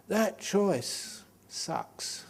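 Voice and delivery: drawn out very slowly and high; comic disgust. Acted. Monk mocking supermarket choice to the audience, slow high drawl. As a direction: savour the complaint, stretching "That". Comic complaint about too many teas.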